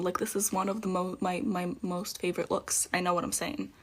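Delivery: words muffled by stiff latex; can't move mouth. Real, not acted. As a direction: talk with a frozen mouth. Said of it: "I can't talk".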